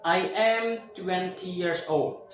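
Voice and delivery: put-on "I am twenty years old" said slowly and clearly; slow example sentence. Shown as a demonstration. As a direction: model the sentence slowly for learners. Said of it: "cara dengan ngomongnya begini". (contoh kalimat diucapkan pelan)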